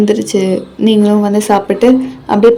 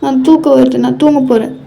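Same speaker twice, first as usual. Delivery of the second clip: mildly huffy brush-off; sulky defiance; 3 semitones higher than usual. Acted. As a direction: sulk and push the partner away. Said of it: "உனக்கு திமிரு அதிகமாயிருச்சு". (லேசான திமிரோடு கோபித்துக்கொள்ளும் குரல்)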